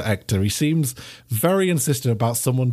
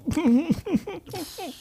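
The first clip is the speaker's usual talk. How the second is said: high giggle; 13 semitones higher, 4 dB quieter than usual. Real, not acted. Player laughs at Hector.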